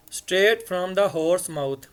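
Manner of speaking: each word of the idiom drawn out very slowly; very slow read. Shown as a demonstration. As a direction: spell out the idiom slowly for students. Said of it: "reads the idiom slowly".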